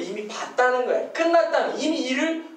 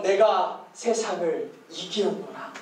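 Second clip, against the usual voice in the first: Jesus; 6 semitones lower, slower than usual. Retold or imitated. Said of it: "예수님처럼".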